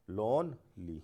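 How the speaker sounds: लोनली split into लोन and ली; syllable by syllable. Shown as a demonstration. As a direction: say लोनली as two beats with a gap. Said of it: "दो syllable हो गए इसमें". (लोनली को दो हिस्सों में तोड़कर)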